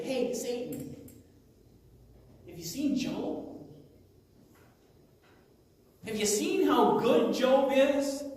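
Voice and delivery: mock a doting God, drawing out the praise; God bragging. God showing off Job to Satan, lightly mocked boasting. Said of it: "God would say".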